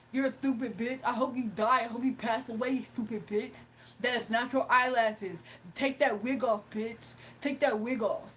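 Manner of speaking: mocking out-of-breath heckler; out-of-breath caller. Streamer imitates the caller ranting about her wig, mock out-of-breath. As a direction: lightly put on a winded, insulting man. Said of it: "he sounds like he's out of breath".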